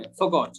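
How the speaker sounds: "Forgot" as faw-got, r left out; silent R. Shown as a demonstration. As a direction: drop the r in "Forgot". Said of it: "এখানে আর উচ্চারণটা কিন্তু হবে না".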